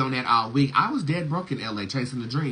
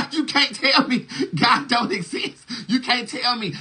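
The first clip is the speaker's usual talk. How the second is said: higher, laughing through the words; giggling high disbelief; 12 semitones higher, 3 dB louder than usual. Shown as a demonstration. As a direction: crack up while insisting You can't tell me God don't exist. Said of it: "repeated line said laughing".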